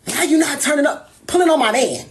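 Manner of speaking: imitating a pushy drunk friend at the club; pestering drunk friend. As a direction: badger him to drink, over and over. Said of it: "Nas every five seconds".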